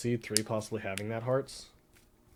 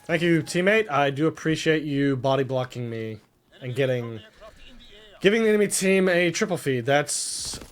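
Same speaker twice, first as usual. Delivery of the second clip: sarcastic; 3 dB louder than usual. Real, not acted. Sarcastic thanks to bad teammate.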